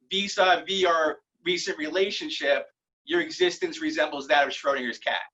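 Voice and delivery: drawn out a bit for clarity; deliberate, unhurried re-read. Shown as a demonstration. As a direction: spell it out slowly for the audience. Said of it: "Can y'all say that a little slower".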